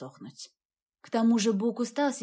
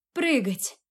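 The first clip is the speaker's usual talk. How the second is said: shouting; 3 semitones higher than usual. Acted. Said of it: "крикнула я".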